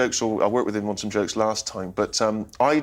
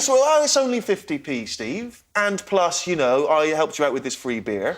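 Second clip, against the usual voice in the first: imitating Carl; 4 semitones higher, slower than usual. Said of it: "His argument is that".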